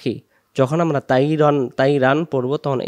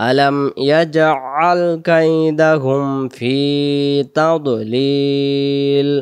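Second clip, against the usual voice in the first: slow, drawn-out Quranic recitation; much slower than usual. Shown as a demonstration. Teacher reciting the verse for students, slow chant. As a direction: chant each syllable long and measured.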